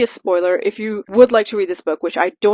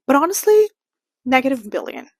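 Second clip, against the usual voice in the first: exaggerated emphasis; 4 semitones higher than usual. Real, not acted. Escalating the rating joke.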